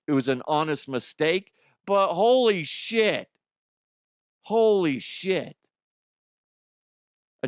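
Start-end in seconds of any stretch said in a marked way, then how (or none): 1.9-3.3 slow, higher, louder "holy shit"; slow amazed exclamation; drawn-out amazement. Real, not acted. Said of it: "I shouldn't laugh". 4.4-5.6 slow amazed exclamation; drawn-out amazement. Real, not acted. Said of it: "I shouldn't laugh".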